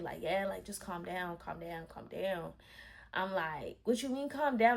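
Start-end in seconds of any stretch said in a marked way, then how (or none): 0.2-2.5 retold consoling. Boyfriend trying to console her after choking her, retold consoling. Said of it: "trying to console me". 3.8-4.8 higher-pitched indignant comeback; retold going off. Girlfriend going off at boyfriend who tried consoling her, indignant. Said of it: "I start going off".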